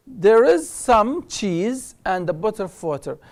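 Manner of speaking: slow, careful teacher read-out; slow model reading. Shown as a demonstration. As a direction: spell it out slowly for learners. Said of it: "teacher models sentence". (قراءة بطيئة وواضحة)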